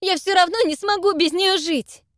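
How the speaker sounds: loud, high, anguished cry; despairing. Acted. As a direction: break into despair. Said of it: "Гнев Зака сменился отчаянием".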